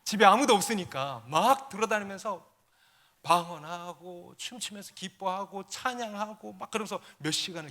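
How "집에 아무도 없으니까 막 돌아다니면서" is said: ordinary talk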